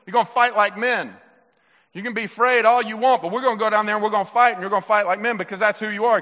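commanding mock-commander delivery; acted rallying speech. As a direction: play a leader ordering scared men to fight. Leaders rallying frightened men, acted.

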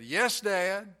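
lightly acted dutiful call back; mild mock yell back. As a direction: imitate a son calling back to his dad. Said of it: "the son would yell back to his dad".

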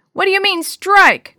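high, loud, disbelieving challenge; indignant protest. A narrator's reading. Batter challenges his sister's strike call, indignant.

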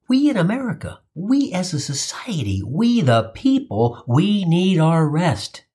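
slow, grand speech voice; mock patriotic oration. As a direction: declaim like a founding father.

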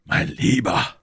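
mildly emphatic call. A narrator's reading. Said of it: "rief Athos".

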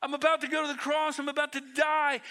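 high, urgent, hurried plea as Jesus; imitated weeping cry. Jesus warning those who won't get it, acted weeping cry. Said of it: "He's weeping like".

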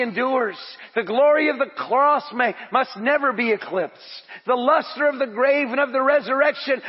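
fervent declamatory praise; preaching at full force. Acted. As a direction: preach it to the rafters. Reads Spurgeon's quote rising to climax.

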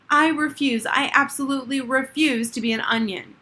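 high, loud indignant refusal; defiant refusal. A narrator's reading. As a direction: dig in your heels and refuse.

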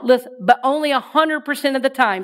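only a hundred percent of the time, dry; deadpan tag; punchline. Shown as a demonstration. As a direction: land the joke straight. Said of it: "Say that".

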